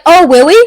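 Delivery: "Willie" with a W for the R; can't say R's. Retold or imitated. Copying someone who can't say R's, "Willie" said with W. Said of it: "people who couldn't say their R's".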